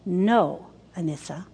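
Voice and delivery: put-on low, soft, firm "No" to a baby; different voice. Mother correcting her newborn, low and soft. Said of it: "And I would say in a different voice".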